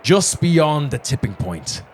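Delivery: grand arena announcer, booming out slowly; magically amplified voice. Acted. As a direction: proclaim to the whole stadium, slowly. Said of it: "his voice is magically amplified".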